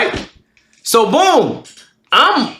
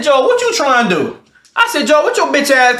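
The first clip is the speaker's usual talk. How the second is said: retold angry challenge, pitched up; getting mad; 6 semitones higher than usual. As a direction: square up to him as you retell it. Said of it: "I started getting mad".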